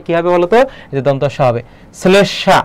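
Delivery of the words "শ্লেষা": শ্লেষা said 'slesh-sha'; ছয়ের মতো উচ্চারণ. Shown as a demonstration. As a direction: start শ্লেষা with s, then sh. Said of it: "এখানে ছয়ের মতো উচ্চারণ হচ্ছে". (শ্লেষা-র শুরুতে স: 'স্লেশ্শা')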